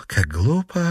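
a mild note of reproach; reproachful. Acted. Wife to both men, mild reproach at the thrown money. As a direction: scold them gently. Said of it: "проговорила Калетта с упрёком".

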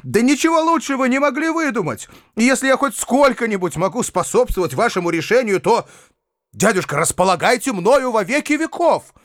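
high, fast enthusiasm; eager delight. A narrator's reading. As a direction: pledge yourself with joy. Nephew delighted by the decision. (восторженно и высоко)

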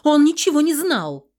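high, very loud cry; shouting back. A narrator's reading. Heroine defending her husband, loud yell. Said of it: "закричала я в ответ".

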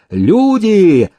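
high shriek for help; frantic shriek. A narrator's reading. Paralytic shrieking for his men, frantic high cry. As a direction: scream for your servants.

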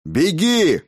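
loud, high bark; barked command. A narrator's reading. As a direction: snap it at the girl, loud and sharp. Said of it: "рявкнул Фёдор". (громко рявкнуть)

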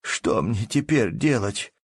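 a poor peasant wringing his hands, despairing; despairing cry. A narrator's reading. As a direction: cry out helplessly. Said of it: "воскликнул снова бедный мужик, ломая руки".

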